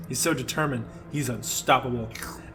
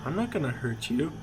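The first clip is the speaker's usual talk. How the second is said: creepy voice; 5 dB quieter than usual. Acted. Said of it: "in his creepy voice".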